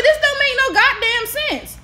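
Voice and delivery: high, loud retold disbelief; incredulous outburst. Student retelling her reaction to the class sentence, incredulous. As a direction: burst out as if totally baffled.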